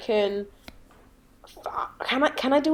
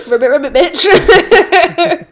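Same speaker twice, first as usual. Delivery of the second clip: frog croak; 5 semitones higher, 13 dB louder, much slower than usual. Pretend.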